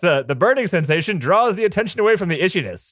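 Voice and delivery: lightly voiced smooth huckster; snake oil salesman voice. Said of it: "You've got a voice".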